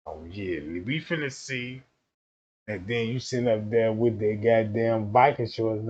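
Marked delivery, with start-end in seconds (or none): 0.1-1.8 much lower, soft sly voice; scheming hush. Retold or imitated. A woman plotting to test the man, low and sly. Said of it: "Oh, he wanna behave himself?".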